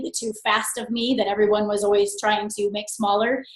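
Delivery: ordinary talk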